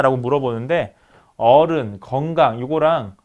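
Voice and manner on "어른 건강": "어른, 건강" with long first vowels; 장모음 어. Shown as a demonstration. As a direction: draw out the first syllable in "어른" and "건강". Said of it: "장모모랑 무슨 단모모". ("어른, 건강"의 첫 음절을 길게)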